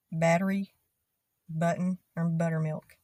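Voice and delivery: "battery", "button", "buttermilk" with the T flapped like D; Texan badd-ery, budd-on; T turned to D. Shown as a demonstration. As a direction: soften every T to a D. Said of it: "We take the T and we turn it into a D".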